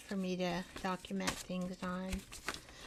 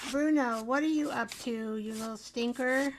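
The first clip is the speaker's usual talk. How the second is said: calling the dog; 2 semitones higher, 7 dB louder than usual. Real, not acted. Woman calling loudly to her puppy Bruno, playfully scolding. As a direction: call out across the room to Bruno.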